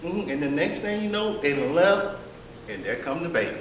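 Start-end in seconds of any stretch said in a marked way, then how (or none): 0.0-0.3 quiet, dreamy mm-hmm; woman melting at the uncle's whispered line, soft murmurs. Retold or imitated. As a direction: hum along like she's being sweet-talked.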